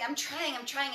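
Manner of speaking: mild mock of beating yourself up; self-critical trying. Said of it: "instead of saying".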